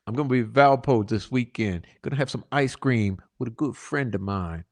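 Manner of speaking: quietly repeating the threat about the daughter; quiet ominous reread. Shown as a demonstration. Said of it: "Okay, remember, that's where the daughter is".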